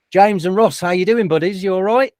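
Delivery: slipping lightly into an Australian accent. Real, not acted. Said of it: "went into a bit of an Australian accent".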